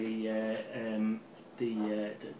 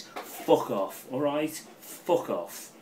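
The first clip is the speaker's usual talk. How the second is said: emotional swearing at rivals; 4 semitones higher, 4 dB louder, much slower than usual. Real, not acted. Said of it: "I'm getting emotional now".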